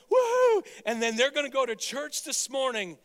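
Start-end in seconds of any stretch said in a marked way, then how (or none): 0.1-0.7 very high, loud whoo; fan's whoop. Acted. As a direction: scream it like a celebrating fan. Fans cheering the game.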